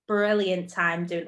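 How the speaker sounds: posh British news reporter accent. Real, not acted. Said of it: "You sounded like a news reporter with that accent".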